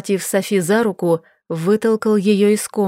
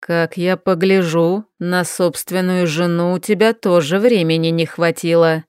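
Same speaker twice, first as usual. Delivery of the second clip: snide remark; 3 semitones lower than usual. Acted. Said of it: "ехидно заметил Крайтон".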